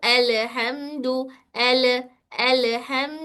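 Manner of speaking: "एल, हम" chopped apart with a bounce; wrong way demo, letters clipped and bounced; wrong split letters. Shown as a demonstration. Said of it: "ऐसे नहीं पढ़नी है".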